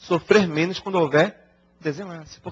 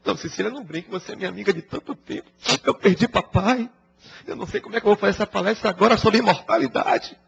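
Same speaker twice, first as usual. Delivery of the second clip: higher, mock-tearful complaint; mock whining; 6 semitones higher than usual. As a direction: whine it like a friend fishing for pity. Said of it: "tá choramingando". (choramingo fingido, mais agudo)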